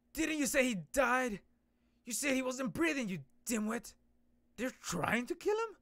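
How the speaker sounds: loud, high scolding shout; angry boss. Acted. Boss scolding an underling for a false death report, shouting angrily. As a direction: berate the dimwit.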